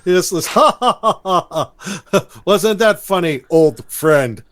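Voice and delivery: loud, high hammed-up cartoon laughter. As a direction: ham up an eighties cartoon laugh. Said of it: "traditional eighties cartoon laugh".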